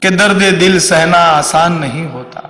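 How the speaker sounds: slow, measured verse at normal pitch; shayari recital. Shown as a demonstration. Comedian opens a mock Hindi shayari, measured recital. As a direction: recite the couplet slowly, without raising it.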